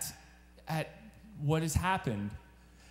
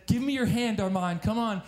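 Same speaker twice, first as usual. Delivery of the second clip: urging father; 5 semitones higher, 4 dB louder than usual. Retold or imitated.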